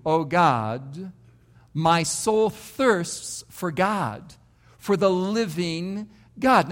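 slow, reverent reading of the psalm, words drawn out; slow scripture reading. Acted. Pastor reads King David's psalm to the congregation, slow and reverent. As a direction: lean into each line of the psalm like a prayer.

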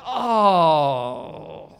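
long falling groan of disapproval; disapproving groan. Retold or imitated. Heckler groaning at the preacher's point, disapproving groan. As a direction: groan out a drawn-out "oh". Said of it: "she would make those groaning sounds again".

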